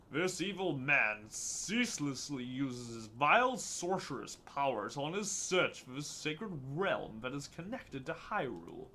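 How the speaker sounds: slow, solemn fantasy narration; grand voice acting. Guardian warning of the evil man's search, grand voice acting. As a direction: recite it as weighty ancient lore. Reads game dialogue in put-on voice.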